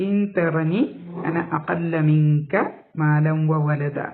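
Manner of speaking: slow, measured verse recitation; Quran recitation. Shown as a demonstration. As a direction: recite slowly, holding the long syllables.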